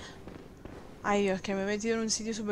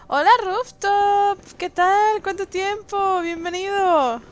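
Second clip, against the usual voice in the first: cheerful greeting; 8 semitones higher, 6 dB louder, slower than usual. Real, not acted. Greeting chat viewer.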